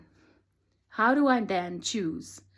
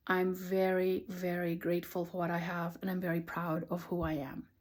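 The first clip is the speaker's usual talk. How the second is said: calm affirmation; 7 dB quieter than usual. Retold or imitated. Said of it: "And then finally saying".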